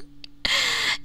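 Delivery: a breathy, unvoiced sinister chuckle; whispered laugh. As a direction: laugh under your breath, a little creepy. After the sinister promise.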